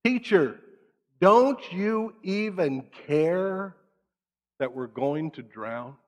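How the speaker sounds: mock frantic shout.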